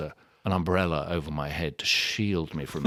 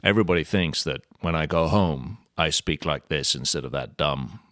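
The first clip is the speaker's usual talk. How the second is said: a lightly done American accent; 3 semitones lower than usual. Shown as a demonstration. Actor asked for his American accent, speaking in a light American accent. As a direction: slip into a modest American accent on request. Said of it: "Not bad. That's pretty darn good".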